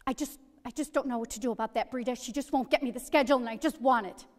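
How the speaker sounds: voicing an agitated mother fed up with Breda; agitated mom. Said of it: "she was agitated".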